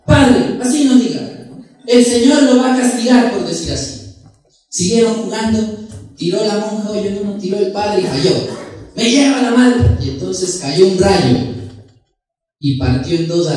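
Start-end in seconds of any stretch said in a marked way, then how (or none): 0.0-3.9 higher, louder reproach; scolding nun. Acted. Nun warning the priest of God's punishment, scolding. 8.9-10.0 higher, slow drawn-out curse; exasperated priest. Acted. Priest cursing after he misses, exasperated.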